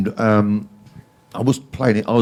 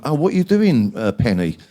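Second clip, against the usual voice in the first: high, loud surprised greeting; mock friend greeting; 4 semitones higher, 4 dB louder than usual. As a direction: greet him in a bright, higher voice. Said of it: "friend greeting Penny, voiced".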